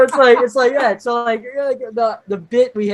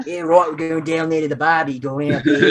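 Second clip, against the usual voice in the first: put-on British accent slipping into Australian. Failed impression of a band going Down Under, Australian accent. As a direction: let it drift into mock Australian. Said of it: "It sounds Australian".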